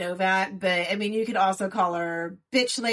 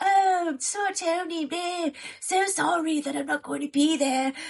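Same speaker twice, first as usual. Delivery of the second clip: high-pitched, put-on, mocking voice; 8 semitones higher than usual. Retelling how a character talks to her kid on the phone: mocking imitation of a character. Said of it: "the way she talks to her kid on the phone".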